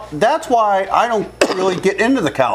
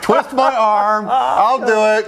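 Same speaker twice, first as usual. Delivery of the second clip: slow mock reluctance; feigned reluctance; much slower than usual. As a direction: pretend it's a big sacrifice. Volunteering for Daytona trip joke.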